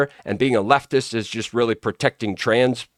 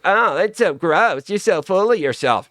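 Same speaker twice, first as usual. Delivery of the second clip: mock disgust; 5 semitones higher than usual. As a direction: sneer like a scandalised prude. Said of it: "people are like".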